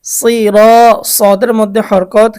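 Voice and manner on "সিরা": সিরা chanted with brief সি and held রা; short first syllable. Shown as a demonstration. Teacher showing no stretch on sad, recited সিরা with short সি. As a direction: keep সি short, then stretch রা. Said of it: "কোনো টান হবে না".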